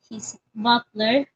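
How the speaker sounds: butler drawn out slowly, leaned on; exaggerated stress on butler. A narrator's reading. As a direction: stretch the word butler out for effect. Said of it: "exaggerating on the word butler".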